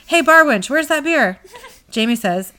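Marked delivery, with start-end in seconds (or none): 0.1-1.4 high, loud mock holler across a bar; hammed-up yell to a barmaid. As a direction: call out boisterously for service. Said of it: "So Dean yells".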